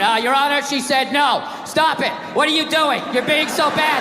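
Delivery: dull flat court reading; a hint of a droning lawyer; bad flat read. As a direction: read it like a bored clerk. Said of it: "some guy reading it".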